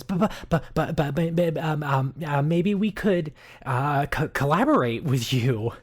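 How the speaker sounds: stammering NPC. Acted. Mango flustered, stammering an offer to collaborate. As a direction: stumble over the buts.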